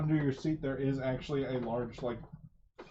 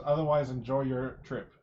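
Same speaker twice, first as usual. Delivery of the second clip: airline safety announcement; 5 dB louder than usual. Acted. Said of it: "He says".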